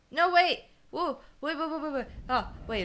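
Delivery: loud, high startled burst of protest; sudden alarm. Real, not acted. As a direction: blurt it out, then settle down. Sudden panic while playing the game.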